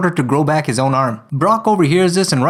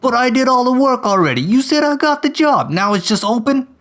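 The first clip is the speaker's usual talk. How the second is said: high, whiny complaint; whiny Brock; 7 semitones higher than usual. Acted. Brock whining to his boss about the assignment. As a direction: whine about losing the job.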